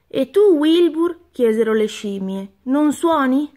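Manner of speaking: high, lightly voiced monkeys calling out; a touch of chattering monkeys; excited monkeys. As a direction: call to Wilbur as the monkeys. Monkeys call to Wilbur.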